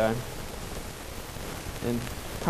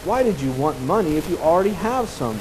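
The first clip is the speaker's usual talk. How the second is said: grumbling; 4 semitones higher than usual. Acted. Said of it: "the father grumbled".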